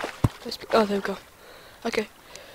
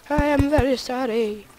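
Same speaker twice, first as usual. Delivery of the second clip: higher, hammed-up apology; mock pleading apology; 4 semitones higher, 3 dB louder than usual. Player insisting to self they are sorry, mock pleading. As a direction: plead with mock remorse, pitched up.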